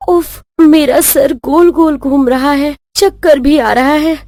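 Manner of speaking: lightly hammed-up faintness; mock swooning complaint; feigned dizziness. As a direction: play weak and woozy for an audience. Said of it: "ये तो नाटकबाजी में दस नंबरी है".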